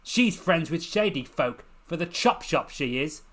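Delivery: sneering jibe. Acted. Urchin sneering back at Lucy.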